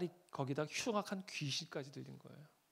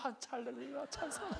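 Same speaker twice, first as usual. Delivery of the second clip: laughing praise; 8 semitones higher, 5 dB quieter than usual. Retold or imitated.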